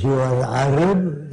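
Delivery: slow, lightly mimicked Arab man's broken English; a hint of an Arab accent, slowed down; imitating broken English. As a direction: quote him slowly in his own broken English. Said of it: "That's the way he spoke".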